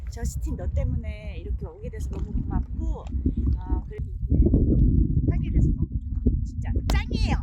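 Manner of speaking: loud, gushing stage-actor voice; hammy stage actor. Pretend. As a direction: overact the gratitude theatrically. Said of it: "연극 톤으로".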